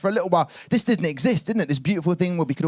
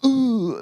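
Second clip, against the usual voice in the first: imitated bag noise; 9 semitones higher than usual. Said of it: "I heard this noise".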